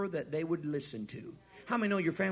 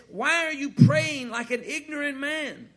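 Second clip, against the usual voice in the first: a touch of stern divine voice, louder and slower; lightly voiced God questioning him; God's rebuke; 9 semitones higher, 9 dB louder, slower than usual. God rebuking the praying preacher, mild stern voice.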